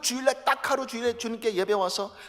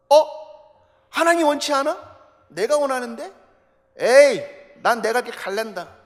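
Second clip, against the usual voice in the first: defiant self-will; 4 semitones higher, 12 dB louder than usual. Retold or imitated. Voices defiant believer turning away.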